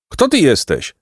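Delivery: high-pitched call, no added volume; called-out question. Acted. Placek to the bird on the pine, mild high call. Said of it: "krzyknął Placek".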